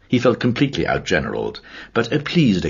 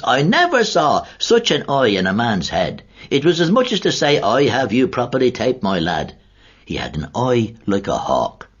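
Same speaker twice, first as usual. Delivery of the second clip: awed recollection; 7 semitones higher, 3 dB louder than usual. Acted. Kernan recalls MacHale's glare.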